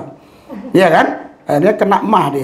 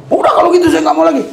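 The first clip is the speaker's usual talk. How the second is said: sulky wife; 9 semitones higher, much faster than usual. Retold or imitated. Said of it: "Mau marah dia".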